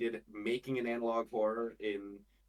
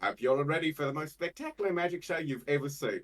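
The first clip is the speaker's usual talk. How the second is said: higher magician patter in mock British; bad British accent; 4 semitones higher, 4 dB louder than usual. Shown as a demonstration. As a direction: welcome the crowd in a fancy, shaky-British accent. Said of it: "I can't do a good British accent".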